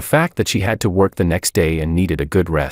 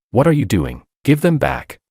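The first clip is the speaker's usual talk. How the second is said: shocked cry; 7 semitones higher than usual. A narrator's reading. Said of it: "she cried in shock".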